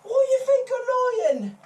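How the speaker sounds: squeaky high, loud outrage; high indignant. Acted. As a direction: protest in a shrill squeak.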